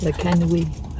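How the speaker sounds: slow, deliberate "Le Kenwi", stretching "Kenwi"; careful repeat. Shown as a demonstration. Wife slowly repeating the fort's name after husband, careful try. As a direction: sound out "Le Kenwi" slowly, testing the word. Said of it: "Le Kenoi".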